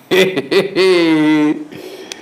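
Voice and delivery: drawn-out amused "hee-hee-hee" laugh. Real, not acted. Host amused by claim governor is American, chuckling.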